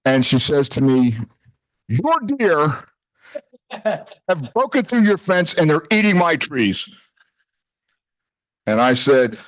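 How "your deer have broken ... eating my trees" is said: higher, mildly forceful mock complaint; forceful neighbor. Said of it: "her tone was a little bit, uh, forceful".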